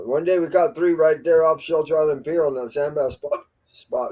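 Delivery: talking through hiccups; hiccupping between words. Real, not acted. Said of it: "I got the hiccups".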